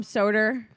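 "Soda" said as "sod-er"; intrusive R. Retold or imitated. Mocking mom's New York speech, "Soda" ending in "-er". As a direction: question "Soda" with an R on the end. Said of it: "they don't use A R when it's needed".

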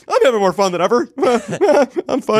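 high, forced cheerful voice with laughs; Hillary Clinton impression. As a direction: pretend everything is fine, laughing. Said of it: "sounded like Hillary Clinton trying to convince herself".

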